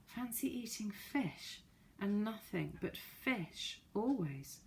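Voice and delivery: grumbling about fish, drawn out and soft; making a face. Acted. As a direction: pull a face at the thought of fish. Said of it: "making a face".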